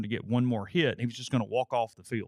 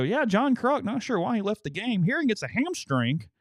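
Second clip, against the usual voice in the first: imitating a TV announcer, much higher and louder; mock broadcast booth call from the TV; 11 semitones higher, 3 dB louder than usual. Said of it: "turn on, like, the seventh inning and go".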